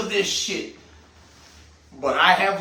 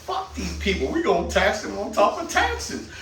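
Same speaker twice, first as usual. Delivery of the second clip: scheming government official; 3 semitones lower, 3 dB quieter than usual. Retold or imitated. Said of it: "they're like".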